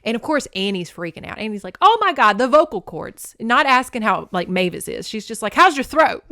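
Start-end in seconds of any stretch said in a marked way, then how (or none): 1.8-3.4 much higher, louder panicked shriek; hammed-up horror; mock panic. Annie watching Mavis get choked, panicked shriek. 5.5-6.2 higher, louder anxious fuss; fussing mother hen; mock worried fuss. Annie fussing over Mavis after the choking, anxious.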